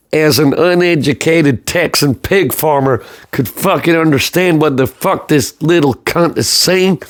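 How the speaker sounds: lightly done Texan drawl, slow; a mild Southern US accent, hammed-up; a hint of an uneducated Texan farmer, slowed; Texan pig farmer. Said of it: "every time I try and do an American accent, I sound like a Texan pig farmer".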